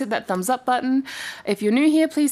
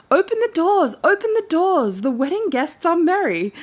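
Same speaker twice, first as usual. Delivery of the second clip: little hare voice; 7 semitones higher than usual. Acted. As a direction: sing it out like an eager little bunny.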